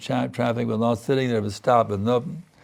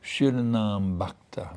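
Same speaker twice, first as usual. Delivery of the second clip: humble prayer; 2 semitones lower than usual. Shown as a demonstration. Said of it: "So we can beg".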